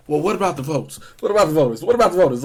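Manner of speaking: sarcastic mock concern, rising. Mocking Harvey caring only votes.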